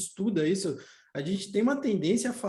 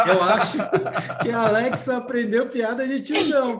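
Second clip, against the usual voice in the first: laughing; 4 semitones higher, 5 dB louder than usual. Real, not acted. Laughing after Alexa's joke.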